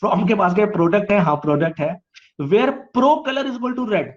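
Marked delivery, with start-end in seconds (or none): 2.4-4.1 slow dictation. Shown as a demonstration. Teacher dictates the SQL query.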